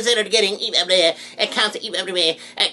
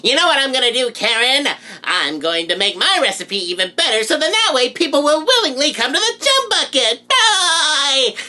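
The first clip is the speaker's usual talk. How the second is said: SpongeBob voice; 4 semitones higher than usual. Acted. Plankton improvised scene.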